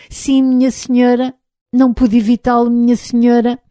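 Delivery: an unsure robot answering politely; timid robot voice. Acted. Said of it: "numa voz baixa e insegura". (voz de robô tímido e inseguro)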